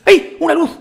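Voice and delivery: high, loud cry of discovery; excited shout. Real, not acted. Gamer spotting a light, shouting excitedly. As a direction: call it out as you spot it.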